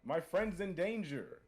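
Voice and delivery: slow, loud, high heroic cry; heroic declaration. Acted. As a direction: declare it like a dramatic hero.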